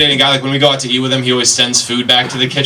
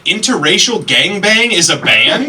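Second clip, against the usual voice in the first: high, slow disbelieving question; dad not buying it at all; a hammed-up incredulous father; 6 semitones higher, slower than usual. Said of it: "And he said".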